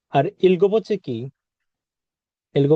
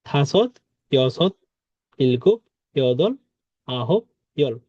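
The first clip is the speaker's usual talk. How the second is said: slow drill; 3 semitones lower, slower than usual. Shown as a demonstration. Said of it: "এভাবে মুখস্থ করবেন".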